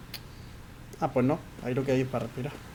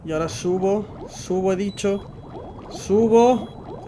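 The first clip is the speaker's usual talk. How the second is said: rising frustration; 5 semitones higher, slower than usual. Real, not acted. Struggling to surface in game.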